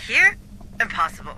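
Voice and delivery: can't believe it, pitch leaps up; shocked disbelief. Acted. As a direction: scientist reacting in disbelief, sharply surprised. Shocked at Darwin-era idea.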